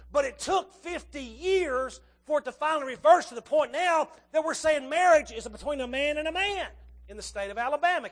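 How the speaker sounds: outraged preacher raising his voice; preaching loudly. Acted. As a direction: thunder it at the congregation. Preacher decries moral decline.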